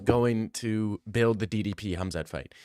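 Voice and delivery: put-on hyped-up South African accent; a half-held South African accent. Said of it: "That's a pretty good accent".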